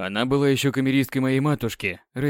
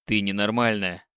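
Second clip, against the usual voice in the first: с отвращением; 5 semitones lower than usual. Acted. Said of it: "с отвращением сказал Люциан".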